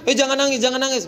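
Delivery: high, hurried mock scolding; quick high-pitched "stop that"; hushing a crying child. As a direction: imitate a parent shushing tears. Imitates adult hushing crying child.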